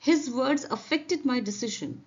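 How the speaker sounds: very slow, each word spaced out; slow, careful classroom reading; slow dictation read. Shown as a demonstration. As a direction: read it slowly for learners. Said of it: "teacher reads example slowly".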